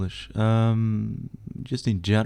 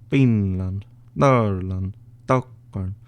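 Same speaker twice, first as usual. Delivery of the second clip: Finnish accent; 4 dB louder, much slower than usual. Shown as a demonstration. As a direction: place names loud, in a Finnish accent. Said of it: "You do that sound sometimes".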